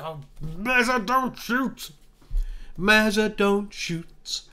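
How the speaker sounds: high, strained wail at a player; exasperated pleading. Real, not acted. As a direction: plead helplessly, high and held back in volume. Begging his player not to shoot.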